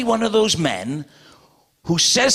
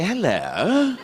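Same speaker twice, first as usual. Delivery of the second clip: posh English hello. Retold or imitated. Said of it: "Oh, I say".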